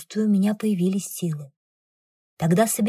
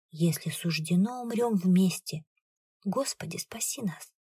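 whispered prayer; 5 dB quieter than usual. Acted. Mother prays over her daughter, hushed and fading. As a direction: murmur it as a last prayer. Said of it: "шепчет она".

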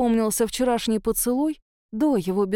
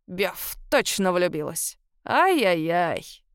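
slow teasing ай-яй-яй; great-grandmother tutting at the girl in love, slow; tut-tutting; 2 semitones lower, slower than usual. A narrator's reading. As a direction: cluck your tongue at her. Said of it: "зацокала мадам Тайра языком".

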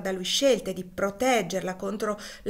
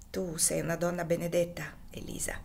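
hushed, whispered gratitude; moved; 3 dB quieter than usual. Acted. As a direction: breathe it out in awe. Husband moved by wife. (il marito commosso alla moglie, sussurro grato)

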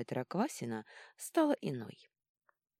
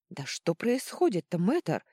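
loud, raised demand; yelling; 3 semitones higher, 6 dB louder, slower than usual. A narrator's reading. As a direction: shout at the healer for an answer. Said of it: "заорала Клозильда так". (громкий крик)

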